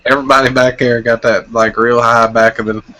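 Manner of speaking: Eastern redneck twang from the back of the neck; lightly put-on backwoods Southern accent. Shown as a demonstration. Friend shows how people talked back home, backwoods redneck accent. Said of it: "man, we talk like this".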